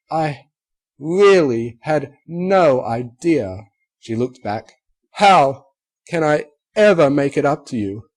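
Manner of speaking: high, loud, slow breaking plea; Rarity to Applejack, loud tearful plea. Acted. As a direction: beg forgiveness through tears.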